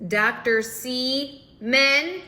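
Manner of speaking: loud, drawn-out reading of a name; slow sounding-out. Retold or imitated. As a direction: sound out each word, with gaps between. Reading out the name she types.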